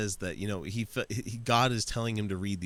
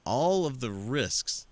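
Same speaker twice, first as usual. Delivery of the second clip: mock sarcasm; 3 semitones higher, much slower than usual. Mocking the guest's words.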